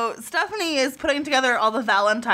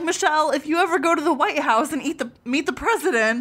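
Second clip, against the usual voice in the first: Jesse voice; 4 semitones higher than usual. Retold or imitated. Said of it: "Jesse's all like".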